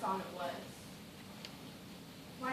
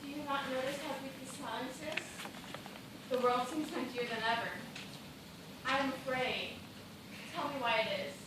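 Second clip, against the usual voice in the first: hushed fear; 7 dB quieter than usual. Acted. Frightened woman in eerie silence.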